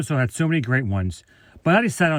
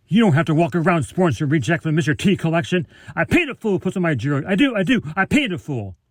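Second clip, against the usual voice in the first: lightly voiced tough-guy impression; higher-pitched mock scolding in a celebrity's catchphrase style; Mister T; 4 semitones higher than usual. Quoting a sitcom friend mocking the bracelet, Mister T impression. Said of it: "that was a great impression of Mister T".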